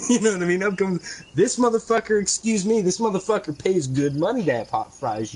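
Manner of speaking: heated rant at the fry cook, pitch up; chewing out a worker over cold fries; angry ranting retelling; retold rant.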